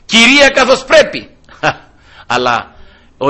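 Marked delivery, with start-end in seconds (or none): 0.0-1.3 higher, louder mock indignant lady; hammed-up woman denying her sins; offended proper lady. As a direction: play a huffy respectable woman protesting. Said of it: "Αν ήτανε καμιά άλλη, ξέρω εγώ".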